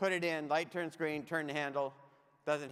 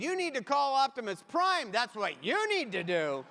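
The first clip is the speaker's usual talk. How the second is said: mock urgent demand; 4 semitones higher, 5 dB louder than usual.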